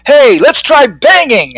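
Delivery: high, slow call across the window; yelled suggestion. A narrator's reading. A fly calls the others to try banging, high and slow. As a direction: call it out to the whole swarm. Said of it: "another yelled".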